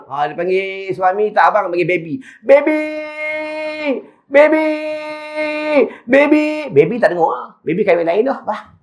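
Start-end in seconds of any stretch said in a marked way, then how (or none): 2.5-6.7 high, pleading calls into the void; calling out. Retold or imitated. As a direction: call for your husband, unanswered. Dead wife calling husband from grave.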